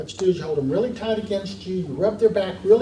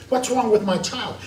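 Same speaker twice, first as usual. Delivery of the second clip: mildly hammed-up exasperated parent; parent going nuts; 4 semitones higher than usual. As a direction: imitate a parent at wits' end. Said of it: "the parent's going nuts".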